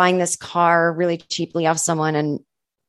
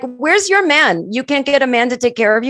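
raised teasing voice; kitchen guys teasing; 5 semitones higher than usual. Retold or imitated. Kitchen staff teasing the white waitress, raised and playful. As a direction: rib her playfully. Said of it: "the Mexican guys in the kitchen were like".

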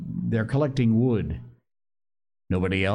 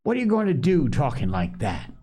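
quick, higher-pitched scolding; shrill; 6 semitones higher, faster than usual. A narrator's reading. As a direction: scold fast with a touch of shrillness. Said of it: "said Piggy shrilly".

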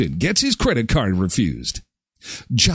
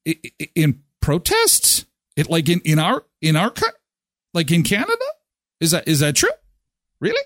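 mock incredulous voice; 3 semitones higher, faster than usual. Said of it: "Why am I talking like this?".

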